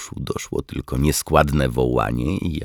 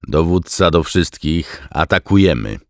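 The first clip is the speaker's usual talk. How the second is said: announcing to squadron; 5 semitones higher, 6 dB louder than usual. A narrator's reading. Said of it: "oznajmił Marek reszcie eskadry".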